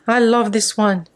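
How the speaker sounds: gasp, then I love this one; excited crafter's gasp; delighted gasp. Real, not acted. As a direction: catch your breath at something lovely. Gasps at a chipboard frame.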